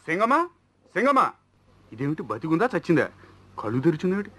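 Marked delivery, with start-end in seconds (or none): 0.1-1.3 alarmed cry. Acted. Finds him tied up, alarmed.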